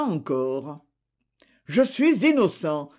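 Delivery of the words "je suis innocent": a hot, raised protest of innocence; a mild narrated outburst, pitched up; fiery cry. Acted. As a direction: cry it out with passion. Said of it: "cria-t-il fougueusement".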